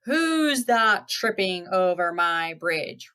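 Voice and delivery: slow, drawn-out troll challenge; lightly roared, stretching out the words; mild troll roar. Acted. Troll challenging the goat on his bridge, mildly roaring. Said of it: "roared the troll".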